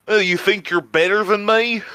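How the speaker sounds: lightly put-on southern challenge; hint of southern-accented mock confrontation. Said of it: "the equivalent of that would be".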